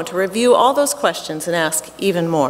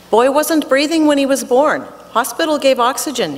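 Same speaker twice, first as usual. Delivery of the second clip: Russian doctor voice; 6 semitones higher than usual. Retold or imitated.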